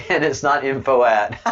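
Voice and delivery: words broken by real laughter; laughing. Real, not acted. Streamer correcting a viewer about his name, laughing.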